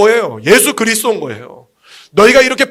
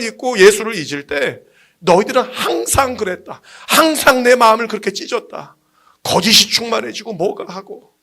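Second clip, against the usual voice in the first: preacher voicing God's lament; earnest, emphatic divine address; the Lord speaking. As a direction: draw out key phrases as a wounded God. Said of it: "주님 그러셨어요".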